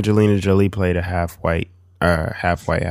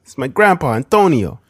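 mock Italian accent; 7 semitones higher, 5 dB louder than usual. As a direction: introduce grandpa in a hammed-up accent. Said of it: "No, that's Latino".

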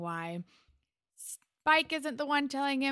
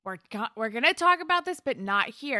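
firm hushed insistence; 3 semitones higher, 5 dB louder than usual. Retold or imitated. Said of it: "Spike is just like".

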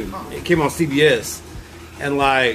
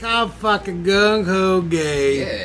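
mock excited; 3 semitones higher, much slower than usual. Mock enthusiastic pride.

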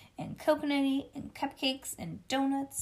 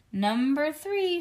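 loud, stretched-out announcement; hollered; 5 semitones higher, 6 dB louder, slower than usual. A narrator's reading. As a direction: holler it out slowly, higher and louder. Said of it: "she hollered".

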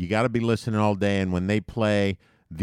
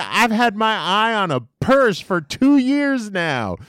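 New Yorker; 12 semitones higher, 5 dB louder than usual. Retold or imitated. Typical New Yorker voiced.

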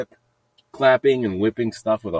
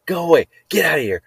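loud, higher shout at birds; retold shooing shout; 7 semitones higher, 5 dB louder, faster than usual. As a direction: shoo the birds off loudly. Shooing blackbirds in a retold scene.

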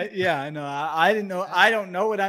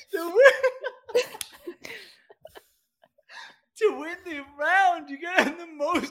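laughing; 9 semitones higher than usual. Real, not acted. Laughing through the explanation.

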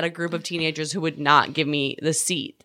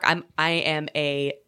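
put-on sweet Canadian girl; 2 semitones lower, much slower than usual. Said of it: "this was sweet Canadian Andrea".

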